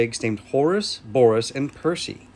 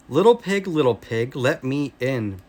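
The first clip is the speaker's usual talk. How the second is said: mild bellow. Acted. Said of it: "bellowed the wolf".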